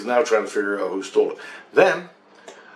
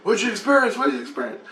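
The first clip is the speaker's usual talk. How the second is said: lightly voiced Jesus; 11 semitones higher, faster than usual. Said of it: "Then Jesus starts ri-, dripping me".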